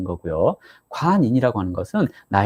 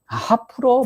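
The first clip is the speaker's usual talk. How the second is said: mock coaxing, pitched much higher; coaxing plea; 11 semitones higher, slower than usual. Partner coaxing the angry one to cheer up, mock coaxing. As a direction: sweet-talk a sulking partner, playfully. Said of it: "막 이렇게 하잖아요".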